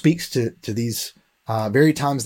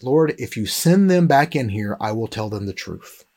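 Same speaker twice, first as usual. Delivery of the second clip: quiet prayer. Retold or imitated. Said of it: "he prayed a prayer to God".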